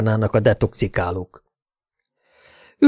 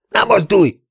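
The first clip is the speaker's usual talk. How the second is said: cop's command; 10 semitones higher, 4 dB louder than usual. Acted. Cop draws gun on detective.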